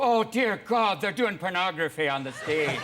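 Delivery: put-on high, shocked old Irish lady voice; scandalized old lady. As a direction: gasp it out like a horrified church lady.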